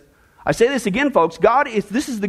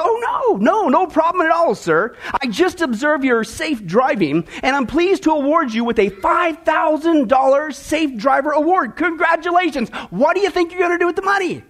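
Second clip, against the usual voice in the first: a hint of upbeat officer, pitched up; lightly voiced policeman; 4 semitones higher than usual. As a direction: lightly play a congratulating cop. Joke policeman congratulating a driver.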